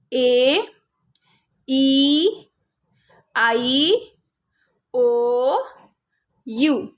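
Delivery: each vowel said as its letter name, drawn out and spaced; long vowel names. Shown as a demonstration. Teacher modelling long vowel names, drawn out. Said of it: "long sound मतलब vowels के name".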